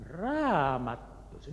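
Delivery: "Raamattuunsa?" drawn out slowly, wondering; the pastor slowly repeating "Raamattuunsa?" in surprise; puzzled echo. Retold or imitated. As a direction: echo "Raamattuunsa" back in slow disbelief.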